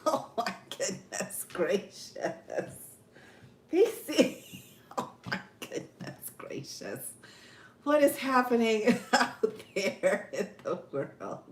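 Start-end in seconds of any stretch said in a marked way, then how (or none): 0.1-5.0 breathless laughing. Real, not acted. Laughing at a chat comment. 5.0-7.1 breathless, airy laugh through the words, much lower; laughing whisper. Real, not acted. Host giggles at a viewer's comment, laughing whisper.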